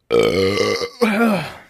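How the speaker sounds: long low throaty sigh; heavy exhale. Real, not acted. Pausing before listing podcast essentials, long heavy sigh. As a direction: let out a long, low breath. Pauses after opening remark.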